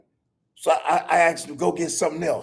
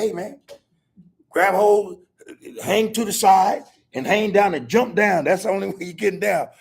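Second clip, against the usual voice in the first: louder, raised call with instructions; calling up to the roof; 6 semitones higher, 4 dB louder than usual. Retold or imitated. Grandfather calling to grandsons stuck on the roof, loud. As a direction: shout directions up to the kids.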